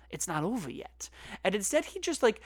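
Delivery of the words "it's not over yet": whispered, ominous mock movie line; hushed hero line. Host mocks the script's hero vowing to continue, whispered. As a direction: breathe it like a dramatic teaser.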